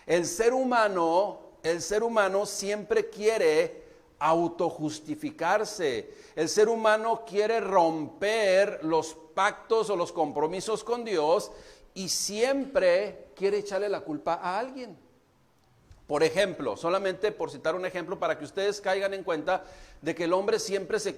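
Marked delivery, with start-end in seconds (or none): none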